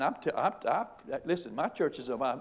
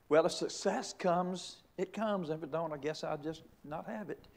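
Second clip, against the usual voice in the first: mock shrug; 4 semitones higher than usual. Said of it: "We, we live as if".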